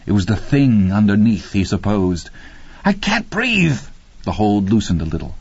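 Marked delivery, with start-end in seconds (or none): 2.8-3.8 high, strangled gasp of words; acted desperate, strained cry; choked panic. A narrator's reading. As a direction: force it out as if throttled. Man being choked.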